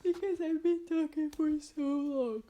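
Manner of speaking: breathless after talking so long; out of breath. Real, not acted. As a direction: talk out of breath, gasping a little. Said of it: "I'm literally out of breath".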